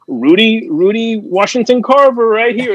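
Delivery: high, lightly imitated Black American accent; Rudy's black accent. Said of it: "a Latino accent and black accent".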